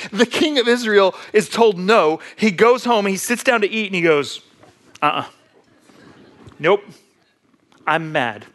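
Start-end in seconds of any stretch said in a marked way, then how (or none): 5.0-8.5 mock sulk like a little juvenile; short pouty refusals, pauses between them; pouting kid. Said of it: "he pouts like a little juvenile kid".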